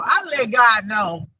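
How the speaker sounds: ordinary talk, nothing marked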